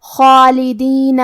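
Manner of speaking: خالدین with a heavy, full خا and long alif; heavy kha. Shown as a demonstration. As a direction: thicken خا and draw out the alif. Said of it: "بھاری آواز میں پڑھنا ہے". (خا کو بھاری آواز میں)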